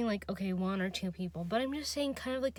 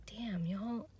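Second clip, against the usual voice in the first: whispering; 6 dB quieter than usual. Retold or imitated. Exasperated aside to friends.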